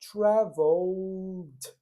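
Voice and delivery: Traveled said slowly with the sound stopped; cut-off ending. Shown as a demonstration. Teacher models a slow Traveled with the ending cut. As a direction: stretch Traveled slowly and clip the end.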